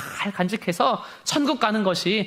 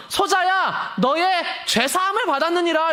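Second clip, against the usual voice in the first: voice of the Lord; 5 semitones higher than usual. Acted. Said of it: "이렇게 얘기를 해요".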